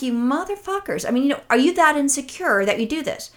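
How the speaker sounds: a mild mock rant of disbelief; retold outrage. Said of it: "And I'm like".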